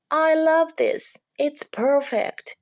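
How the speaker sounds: put-on high, slow, delighted child voice; Lucy delighted. Lucy to the unicorn about his card, high and delighted. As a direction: savor each word with joy.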